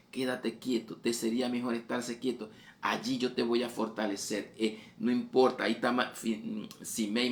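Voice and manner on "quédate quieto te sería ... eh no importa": God calling out. Acted. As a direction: call it out as a firm divine order. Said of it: "Te lo dice a voces, te lo dice a gritos". (la voz del Señor a voces, más aguda y fuerte)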